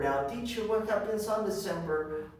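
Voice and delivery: a hint of a pupil's voice; pupil asking the teacher. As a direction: ask it as an inquiring student would. Voicing a pupil's question.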